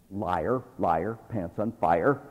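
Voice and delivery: slow playground chant; singsong taunt. Acted. Preacher teasing a gossiper with a slow playground taunt. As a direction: tease like a kid in the schoolyard.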